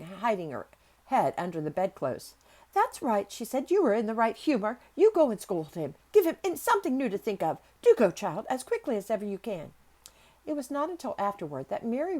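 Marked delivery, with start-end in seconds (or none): 2.7-3.3 loud, high, urgent encouragement; eager approval. A narrator's reading. Nurse pleased by the child's temper, eager approval. 3.7-9.7 raised, urgent nurse's voice; eager urging. A narrator's reading. Nurse sending child to scold him, eager urging.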